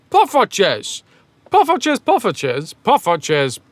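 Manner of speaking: insistent repeated one-word plea; imitating lost tourist. Brad asking directions in Amsterdam, mock lost tourist. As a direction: call it out over and over like a hapless traveller. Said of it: "He'll try to ask directions by saying".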